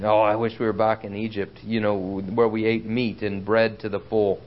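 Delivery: low-pitched, understated grumble; mock complaining. Preacher imitating Israelites who miss Egypt, mildly complaining. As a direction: lightly imitate a grumbler longing for the past. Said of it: "and they complain".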